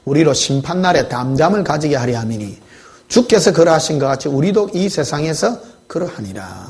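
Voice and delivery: measured reading of a Bible verse; scripture reading. Acted. Pastor reading scripture to the congregation, measured. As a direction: read the verse aloud to the congregation.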